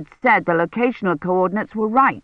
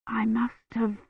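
much softer, drifting weak voice; faint feverish murmur; 4 semitones higher, 9 dB quieter, slower than usual. Acted. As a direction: speak as if slipping out of consciousness.

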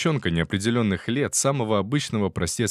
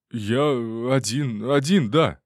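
detainee answering; 4 semitones higher, slower than usual. Acted.

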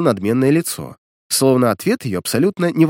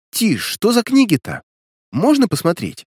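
put-on a bit higher, eager girl; lightly voiced curious girl; 8 semitones higher than usual. A narrator's reading. Katya asks what books, lightly high and curious.

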